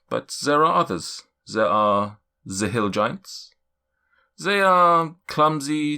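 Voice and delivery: cloud giant's voice. Acted. Cloud giant warning the party about giants, stately. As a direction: lay out the giant races gravely.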